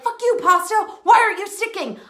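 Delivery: playfully re-enacted exasperation; mock frustration. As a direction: act out cursing at uncooperative pasta. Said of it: "I would get so frustrated".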